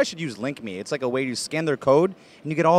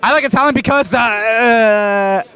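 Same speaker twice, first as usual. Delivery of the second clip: mock hesitant answer, higher and louder; imitating her answer; 3 semitones higher, 5 dB louder, slower than usual. Man mimicking woman who likes Italian, mock hesitant answer. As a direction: exaggerate her stalling on the reason. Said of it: "she just goes like this".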